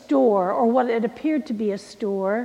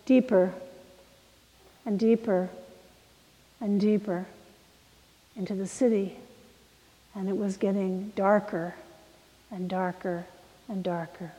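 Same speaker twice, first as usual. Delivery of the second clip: fading ominously; 3 semitones lower, 8 dB quieter than usual. Acted. Preacher telling of a bus driving deeper into the city, fading ominously. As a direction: let each repeat die away into the dark.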